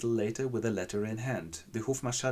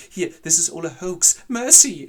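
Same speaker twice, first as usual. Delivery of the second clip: high, loud panicked yell; frantic shout; 8 semitones higher, 12 dB louder than usual. Acted. A fleeing man yells in panic at Ferdinand. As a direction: yell it out as he bolts.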